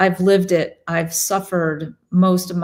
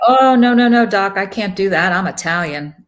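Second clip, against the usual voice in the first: mock protest; 6 dB louder, faster than usual. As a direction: blurt it out like a stubborn patient. Patient voiced, mocking refusal.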